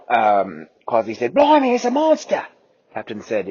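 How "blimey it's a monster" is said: high, loud alarmed shout; excited shout. Acted. Quasi shouting in alarm as he spots the T-Rex. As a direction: cry out at the monster.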